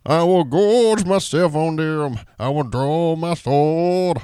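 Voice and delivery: lightly voiced grunge rocker singing; impression of a grunge singer. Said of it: "I could do a grunge singer".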